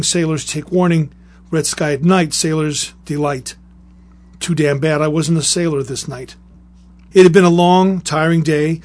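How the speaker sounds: measured, deliberate reading aloud; story reading with a strong attack on each new sentence; story narration. Acted. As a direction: read a grim war memoir in firm, spaced phrases. Reads a veteran's story aloud.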